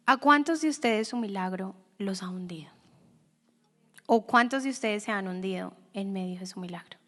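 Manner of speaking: hushed whisper; whispered question. Real, not acted. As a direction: lean in and whisper it to the congregation. Preacher asks the congregation intimately.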